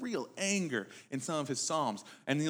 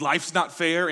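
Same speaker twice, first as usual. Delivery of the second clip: mock angry grumble; 6 dB louder, slower than usual. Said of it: "have you ever gotten angry and said".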